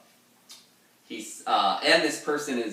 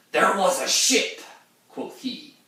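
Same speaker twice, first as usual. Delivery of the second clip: much higher, louder put-on sailor voice; old mariner impression; 11 semitones higher, 8 dB louder than usual. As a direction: croak it out like an old sea captain. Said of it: "back to the impression".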